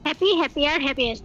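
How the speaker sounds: হ্যাপি, হ্যাপিয়ার, হ্যাপিয়েস্ট as a run, falling at the end; spoken recitation. Shown as a demonstration. Teacher modelling the three spoken forms, recited as a list. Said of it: "spoken এইভাবে বলবো".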